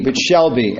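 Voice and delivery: shall landed firm and falling; stress on shall. Real, not acted. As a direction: lean on the word shall. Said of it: "Not might be".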